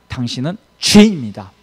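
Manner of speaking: the law passing judgement, acted out; condemning verdict. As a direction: state the verdict firmly, with a loud hit. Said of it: "딱 이렇게 정죄하는 게 율법의 역할입니다".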